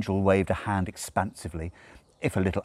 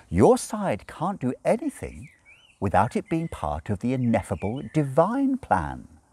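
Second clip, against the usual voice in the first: a trace of smugness; 8 semitones higher than usual. A narrator's reading. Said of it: "with a trace of smugness".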